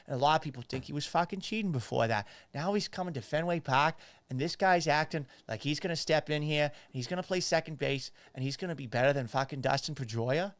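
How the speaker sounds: played-up Boston local, r's dropped; Boston accent. Boston fan doubting the new second baseman, Boston accent. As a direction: grumble in a thick Boston accent. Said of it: "That's how you do a Boston accent".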